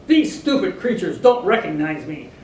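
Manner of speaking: the offended king demands respect; indignant cry. A narrator's reading. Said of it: "he cried".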